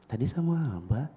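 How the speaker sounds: very soft question. Retold or imitated. Adult quietly asking small boy about Dad, soft. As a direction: ask gently under your breath. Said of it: "pelankan suaranya, eh, suara saya".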